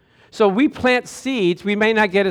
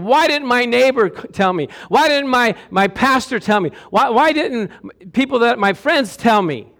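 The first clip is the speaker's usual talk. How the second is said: anguished question; 4 semitones higher than usual. Retold or imitated. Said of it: "the people down there saying".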